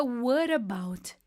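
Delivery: "what about" run together as one word, what flowing straight into about; slow, joined "what about" with a flapped t; linked what about. Shown as a demonstration. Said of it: "a junção do what mais o about fica".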